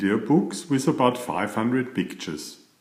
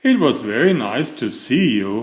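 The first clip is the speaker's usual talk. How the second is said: measured, courteous farewell; politely; 2 semitones higher, 4 dB louder than usual. Acted. Mister Fussy seeing off his cousin, polite on the surface. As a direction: say it with correct good manners. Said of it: "replied Mister Fussy politely".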